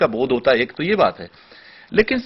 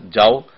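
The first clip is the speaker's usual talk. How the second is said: "जाओ" alone after a break, lower; set apart by pause; 6 semitones lower, much slower than usual. Shown as a demonstration. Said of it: "pause दे दिया". (विराम के बाद अलग से "जाओ")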